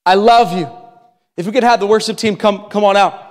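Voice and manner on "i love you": loving father's call, a touch louder; Jesus speaking love to his children; voicing Jesus. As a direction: say it like a tender promise. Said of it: "word of Jesus who says".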